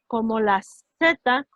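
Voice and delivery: como la Z said slowly; slow and clear. Shown as a demonstration. Teacher slowly comparing the sound to Z. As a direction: draw out como la Z. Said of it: "la T normalmente también suena".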